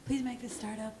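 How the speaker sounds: hushed pleading prayer; whispered prayer. Retold or imitated. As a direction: beg God under your breath. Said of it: "he kept praying".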